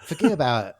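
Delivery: stock New York "fuhgeddaboudit"; rough New York impression; New York accent. Shown as a demonstration. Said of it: "I'm gonna just make it New York".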